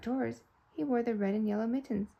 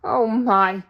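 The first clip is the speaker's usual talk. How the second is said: cry out; 10 dB louder than usual. Acted. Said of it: "cried Mister Flibbertigibb".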